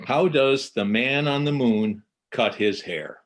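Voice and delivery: joke setup. Acted. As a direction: pose the riddle brightly. Telling a riddle joke.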